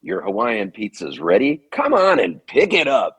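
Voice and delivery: lightly hammed-up pizza counter announcing; pizza announcer call. Nineteen-year-old calling out pizza orders on the mic, mock announcer. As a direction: call the order out over the mic with a bit of flair. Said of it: "I would practice all these vocal inflections".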